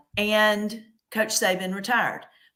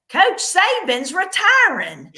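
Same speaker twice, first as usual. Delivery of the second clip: quoting a nurse; 12 semitones higher, 7 dB louder, slower than usual. Retold or imitated. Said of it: "I hear one of the nurses go".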